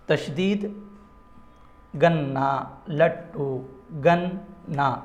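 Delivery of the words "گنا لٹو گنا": held double n in گنا, double t in لٹو; doubled consonant. Shown as a demonstration. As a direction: split them as gan-naa, lat-too. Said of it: "نون کو ہم double پڑھ رہے ہیں".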